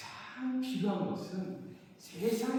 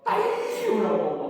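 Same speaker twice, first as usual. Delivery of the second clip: retold yell; 4 semitones higher, 10 dB louder, slower than usual. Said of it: "막 소리를 지르더라고요".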